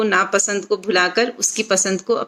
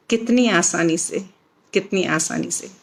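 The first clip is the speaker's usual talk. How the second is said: poetry recital; 3 semitones lower than usual. Acted. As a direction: close the poem by letting the voice fall away. Closing refrain of her poem.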